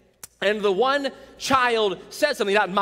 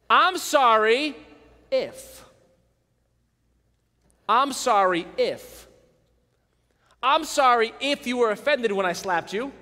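fake apology. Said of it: "A faux apology".

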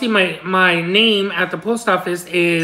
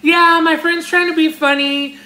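higher-pitched awkward excuse; sheepish explaining; 6 semitones higher than usual. Retold or imitated. Explaining himself to the packed post office, high and sheepish. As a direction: explain it away to onlookers. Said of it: "I felt the need to explain myself".

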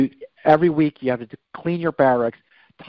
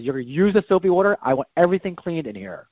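barking drill instructor; 4 semitones higher, faster than usual. Retold or imitated. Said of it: "barks out these orders to me".

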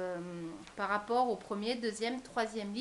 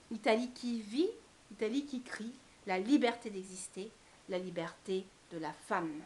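poem reading. Acted. Poet reading viewers a sensual perfume poem, expressive recital. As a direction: recite it line by line, stretching key words. Reads second poem aloud.

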